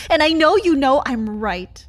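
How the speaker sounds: angry insistence. Acted. Confronting silent partner.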